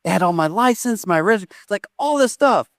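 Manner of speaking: freaking out. Retold or imitated. Daughter lists what was in the lost bag, mock freaking out. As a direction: imitate a daughter getting worked up over her loss. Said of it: "she's just freaking out".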